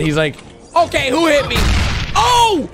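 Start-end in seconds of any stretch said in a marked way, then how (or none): 0.8-1.6 higher, playfully mad quote; mock angry. Voicing an angry Bumblebee after a hit, mock mad. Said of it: "now he's actually mad". 2.1-2.7 very high, incredulous exclamations; startled outburst. Real, not acted. Reactor confronts a surprise newcomer, startled.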